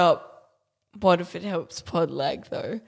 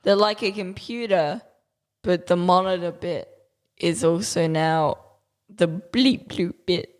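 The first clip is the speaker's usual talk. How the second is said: tech snob voice. Acted. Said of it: "That was my tech snob voice".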